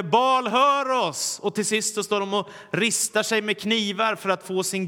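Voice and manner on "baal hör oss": high, loud, slow calling out; loud drawn-out plea; mock crowd shout. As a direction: cry out to an idol who never answers. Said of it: "börjar ropa ännu högre".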